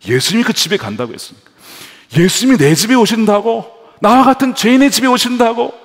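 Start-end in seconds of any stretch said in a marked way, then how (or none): 2.2-5.7 high, loud disbelieving cry; can't believe he's coming; astonished. Retold or imitated. Zacchaeus amazed Jesus comes to his house, loud and high.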